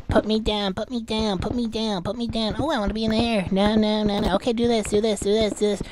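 imitating eager pleas in a repetitive run; monotonous mock badgering; mock clamouring. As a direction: rattle it off like people pestering to be included. Mimics people wanting their names listed.

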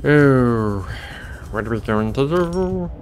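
ordinary talk, nothing marked

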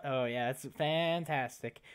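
slow, dry sarcastic aside; deadpan a sarcastic joke; mock sarcasm. Joking to the nurse about the blood test, mild sarcasm. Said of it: "I'm laughing at my own remark".

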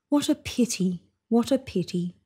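soft, sad murmur. A narrator's reading. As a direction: sigh the words to yourself. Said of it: "he murmured".

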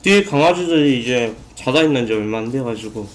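speaking between bites; talking while chewing. Real, not acted. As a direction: mouth partly full of food. Seen 0: Bit pizza at -4s, still chewing while talking, food in hand.

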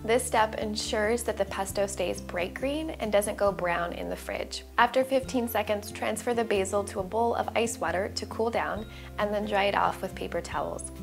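ordinary talk

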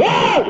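sudden sharp "ah!" yell; startling shout. Shown as a demonstration. Preacher jolting sleeping listeners, startling shout. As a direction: startle the sleepers with one cry. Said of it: "Memang saya tengok siapa tidur".

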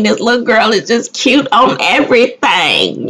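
normal talking voice

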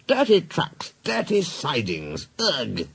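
high start, falling away in disgust; disgusted complaint. Acted. Engine complaining about goods work, disgusted. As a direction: grumble with distaste, ending on a groan.

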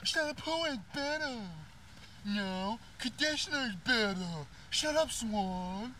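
high silly bickering voice; mock squabble voice.

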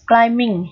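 "climbing" said klai-ming, M with no B; silent B. Shown as a demonstration. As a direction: model "climbing" with the B dropped. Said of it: "mà chỉ đọc âm M mà thôi". (đọc "climbing" chỉ có âm M, bỏ âm B)

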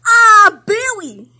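slow, high, loud cooing. Real, not acted. Big sister cooing baby's name back to her, high baby talk.

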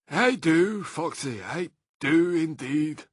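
a hint of gentle reassurance; gentle Badger. A narrator's reading. Gentle Badger answering Mr Fox, kind reassurance. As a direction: say it kindly and slowly. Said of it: "said the gentle Badger".

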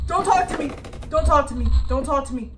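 loud, insistent repeated plea; panicked repeating. Real, not acted. Gamer yelling at the creature in panic. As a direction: keep pleading it loudly over and over.

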